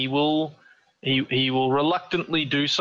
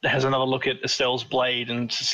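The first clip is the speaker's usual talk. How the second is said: growling bugbear; 3 semitones higher than usual. Acted. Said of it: "That doesn't sound like a bugbear accent".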